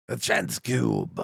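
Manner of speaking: low, slow alien trader impression; Watto. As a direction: drop low and draw the words out. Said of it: "What's the fucking Watto line?".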